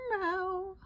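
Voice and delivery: high, soft mimicked meow; cat meow. Copying the crying cat, high meow. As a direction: mew like a lonely cat.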